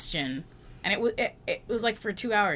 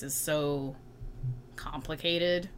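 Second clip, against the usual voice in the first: whispered; 8 dB quieter, slower than usual. Real, not acted. Whispered aside on US relationship.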